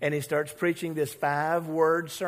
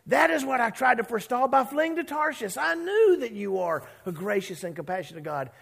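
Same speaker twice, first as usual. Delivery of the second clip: chewing out God; 5 semitones higher than usual. Retold or imitated. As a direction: scold like an aggrieved prophet. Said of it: "This is a chewing out".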